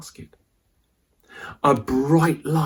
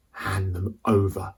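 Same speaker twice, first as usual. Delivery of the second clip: menacing demand; 5 semitones lower, 5 dB quieter than usual. Acted. Arch enemy Shane demands.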